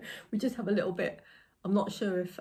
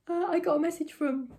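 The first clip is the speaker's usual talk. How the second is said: higher, breathless restart; out of breath; 10 semitones higher than usual. Real, not acted. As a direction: still winded from the stairs. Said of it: "I'm out of breath".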